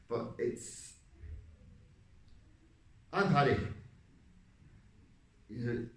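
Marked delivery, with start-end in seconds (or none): 3.1-3.6 loud, high Irish character voice; Irish accent. Shown as a demonstration. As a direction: announce yourself with an Irish accent. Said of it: "I mean, the Irish accent".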